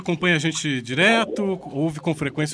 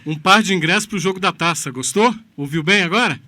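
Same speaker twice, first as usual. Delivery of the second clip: louder for the phone; 7 dB louder than usual. Real, not acted. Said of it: "tá cortando a ligação".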